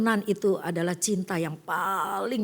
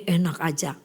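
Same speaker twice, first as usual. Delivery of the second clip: scoffing retort; 6 semitones lower than usual. Retold or imitated. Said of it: "pasti kita bilang gini".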